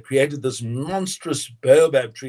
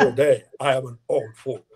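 Nelson Mandela; 2 semitones lower than usual. Retold or imitated. Storyteller quoting Mandela greeting guests, in his South African accent. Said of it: "in the Mandela voice".

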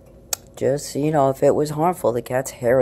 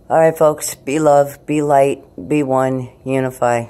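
sign-off blessing; 5 semitones higher, 8 dB louder than usual. Real, not acted.

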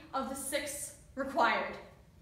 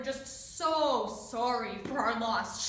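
bitter; 7 dB louder, much slower than usual. Acted. Bitter recounting of officers' condolences.

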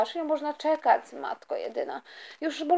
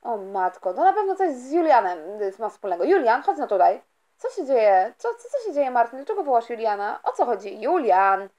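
lower, puzzled dad asking what's wrong; father's voice; 4 semitones lower than usual. Acted. Father puzzled by his silent daughter, lower voice. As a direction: play the baffled father.

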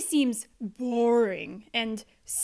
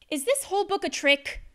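high suspicious question; 6 semitones higher, faster than usual. Acted. Reader suspects a trick.

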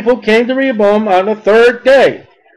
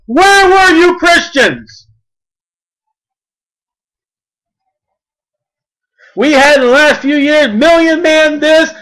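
fiery preaching; 3 semitones higher than usual. Real, not acted. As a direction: hammer each where at the congregation. Preacher rebukes church.

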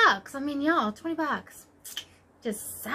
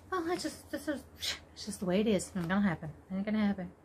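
low, much softer grumble; resigned aside; 6 semitones lower, 9 dB quieter, faster than usual. Real, not acted. Vlogger failing to show a thread, resigned aside. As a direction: drop to a quiet, giving-up aside.

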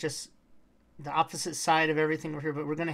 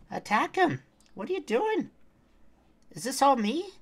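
loud, higher exasperated yell; yelling at the pet; 9 semitones higher, 6 dB louder than usual. Real, not acted. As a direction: snap at the pet that will not fight. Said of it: "I yelled at my pet".

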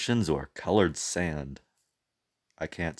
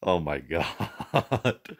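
laughing; 3 dB quieter, slower than usual. Real, not acted. Laughing reaction.

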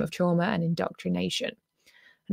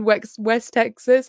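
slow, playful mock Texan accent; a lighthearted imitation of a West Texas drawl; brief hammed-up Texan accent; 2 semitones higher, 4 dB louder, slower than usual. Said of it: "I'm gonna stop doing the accent".

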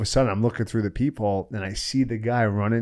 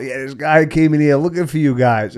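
put-on raised, hurried warning from the girls; caller's report; 4 semitones higher, 5 dB louder than usual. Roommate calling the narrator, a raised voice relaying the warning. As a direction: pass on the news a bit higher and louder. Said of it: "I get a call".

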